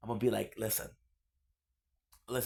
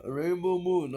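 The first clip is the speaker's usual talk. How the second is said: mock grand name; 6 semitones higher, 5 dB louder, slower than usual. Announcing her hippie name.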